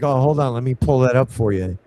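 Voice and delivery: a hint of a New York caller; New York accent. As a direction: imitate a New York bank rep casually. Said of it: "with a New York accent".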